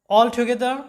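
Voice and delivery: all together with an open "aw" in all; American "all together", open vowel; American accent. Shown as a demonstration. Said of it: "এরপর দেখো যে all together".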